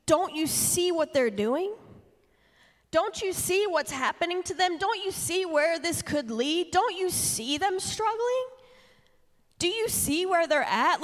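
high, pleading questions to Jesus; anxious pleading. Retold or imitated. Mother pleading with Jesus about her kids, high and anxious. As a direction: beg him to notice, voice climbing high. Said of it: "I was saying to Jesus".

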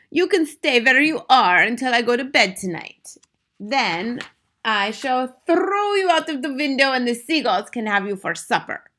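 high, theatrical witch voice; menacing Grand High Witch. A narrator's reading. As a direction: threaten helpless captives with theatrical relish. Grand High Witch threatens frogs.

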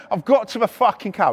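normal talking voice

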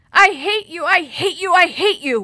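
loud, high, breaking-down cry; furious repeated cry. A narrator's reading. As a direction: scream it over and over, past words. Was all that Maria could say.

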